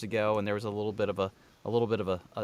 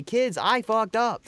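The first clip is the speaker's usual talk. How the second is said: sincere confession; 8 semitones higher, slower than usual. Pretend. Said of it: "totally just take this and say".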